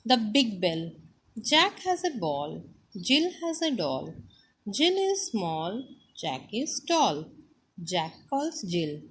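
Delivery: sing-song lesson reading, pitch rising and falling; reading to children. Acted. Teacher reads the chapter to the class, sing-song. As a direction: read it out line by line, swinging the tune.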